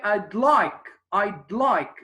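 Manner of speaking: I'd with the D pressed clearly; clear final D. Shown as a demonstration. Teacher drilling the D in I'd. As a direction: land the D in I'd. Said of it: "press on pronouncing the D".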